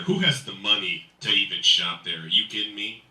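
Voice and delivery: ordinary talk, nothing marked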